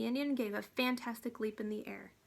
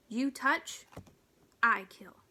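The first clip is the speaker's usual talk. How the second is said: louder, menacing tiny warrior threat; growling warning, louder on kill; ferocious growl; 5 dB louder, slower than usual. Acted. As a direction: snarl the threat as if ready to strike. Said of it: "growled ferociously".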